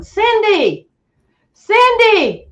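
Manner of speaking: high, eerie far-off call of the name; mimicked call. Girlfriend retelling the night calls in the woods, high eerie calling. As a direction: sound like a creature copying a name from the woods. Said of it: "They were going".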